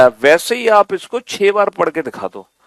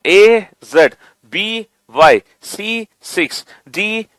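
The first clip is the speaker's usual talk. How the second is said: slow loud lead; 3 dB louder than usual. Shown as a demonstration. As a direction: read the pairs very slowly and loudly for the class to follow. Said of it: "दोबारा से बोलो". (बच्चों के साथ धीरे और ज़ोर से पढ़ना)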